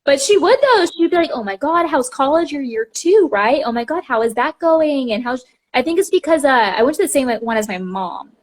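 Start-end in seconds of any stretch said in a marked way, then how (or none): 1.3-5.1 higher, bubbly over-friendly doctor; gushing doctor. Retold or imitated. Doctor greeting a yearly patient, mock gushing. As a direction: gush as if you remember her well.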